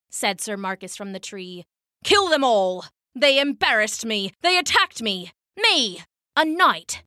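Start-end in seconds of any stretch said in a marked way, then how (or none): 2.0-7.0 rising, high-pitched indignation; indignant outrage. Acted. Tied-up knight demanding his attackers' death, indignant. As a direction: protest the insult, climbing higher on each burst.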